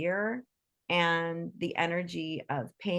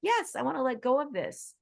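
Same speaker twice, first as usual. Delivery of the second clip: voicing the animal; 5 semitones higher than usual. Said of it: "They start to go".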